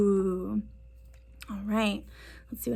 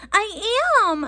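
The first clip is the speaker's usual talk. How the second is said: high indignant protest; crying out; 11 semitones higher, 4 dB louder than usual. Acted. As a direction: cry out high and hurt. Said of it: "I cry".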